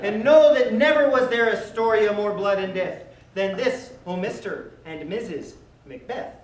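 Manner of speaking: hammed-up Scottish accent, laughing through it. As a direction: mangle Shakespeare in a comic Scottish accent. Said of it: "in perfect Scottish accents".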